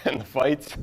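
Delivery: tender, wistful goodbye to his wife; a husband saying sorry he'll never grow old with her; grieving husband monologue. Acted.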